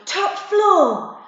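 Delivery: high loud order; commanding yell. Acted. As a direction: bark the order on the run. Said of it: "Jody yelled".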